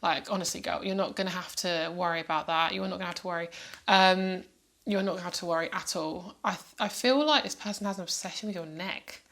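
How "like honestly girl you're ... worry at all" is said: normal talking voice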